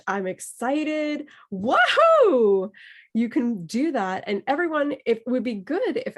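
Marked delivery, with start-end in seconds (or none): 0.1-1.3 excited. Shown as a demonstration. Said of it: "phrases that get you in the mood". 1.5-2.7 higher, louder playful wahoo; mock excited whoop. Shown as a demonstration. Teacher repeats the student's whoop, higher and louder. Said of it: "phrases that get you in the mood".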